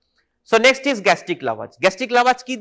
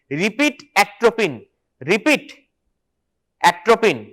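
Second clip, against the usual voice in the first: slow dictation; much slower than usual. Shown as a demonstration. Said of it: "লেখো".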